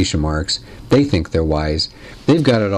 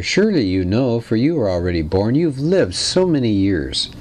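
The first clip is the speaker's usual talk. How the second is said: mock agreement; 3 semitones higher than usual. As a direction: stress it as if sincerely agreeing, tongue in cheek. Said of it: "in, in mock agreement".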